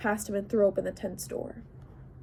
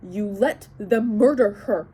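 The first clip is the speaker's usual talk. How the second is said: spat out angrily; 7 dB louder than usual. Acted. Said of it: "I spat the words at him".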